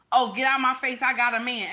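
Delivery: mildly rude, dismissive rebuff; nasty brush-off. Acted. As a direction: brush off an admirer with some attitude. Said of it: "be nasty with it".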